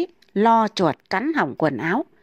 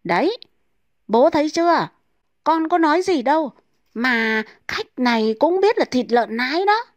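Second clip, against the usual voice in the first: put-on higher, smug childish voice; smug boy; 7 semitones higher than usual. A narrator's reading. Son gloating to his father, smug and high. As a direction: gloat like a kid proven right. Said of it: "ra vẻ hề hà nói luôn".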